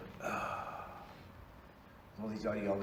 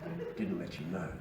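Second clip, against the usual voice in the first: mock polite; 3 semitones higher than usual. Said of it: "I said".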